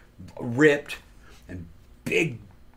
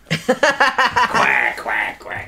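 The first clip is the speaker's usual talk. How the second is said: high, loud mock duck quack; 10 semitones higher, 5 dB louder, much slower than usual. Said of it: "Now you sound like a duck".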